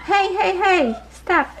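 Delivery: high, giggly scolding; laughing. Real, not acted. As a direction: laugh while telling it off. Laughing at the puppy.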